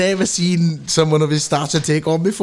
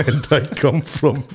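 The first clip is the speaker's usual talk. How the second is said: slow mock Russian accent, on the edge of laughing; slower than usual. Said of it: "I'll have a go at Russia".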